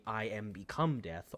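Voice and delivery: dramatic quote. Shown as a demonstration. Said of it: "proper phrase here to reference".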